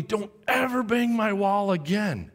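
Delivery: slow, emphatic mock-angry warning; screaming teacher. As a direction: imitate a furious teacher laying down the law. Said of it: "he's just screaming at me".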